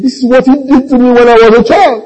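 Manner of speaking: loud, very high mock wail; mock crying. Sister protesting her father's salvation to her pastor, mock crying. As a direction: wail in disbelief, like a tearful complainer. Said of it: "she came and she's crying".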